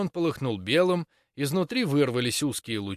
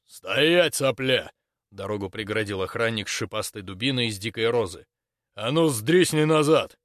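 gruff threat; 2 semitones lower than usual. Acted. Guard blocks boy threateningly.

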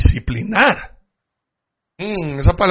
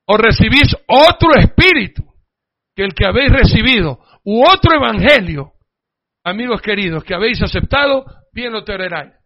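scripture reading; 4 dB louder than usual. Acted. Reads scripture aloud.

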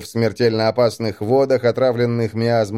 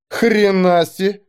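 amazed; 8 semitones higher, slower than usual. A narrator's reading. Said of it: "Глаза Эсты изумлённо расширились".

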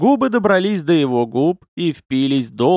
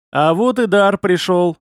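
glad; 4 semitones higher, 4 dB louder than usual. Acted. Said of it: "обрадовался он".

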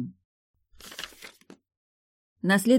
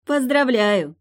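laughing; 9 semitones higher, 6 dB louder, slower than usual. Acted. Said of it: "засмеялась та".

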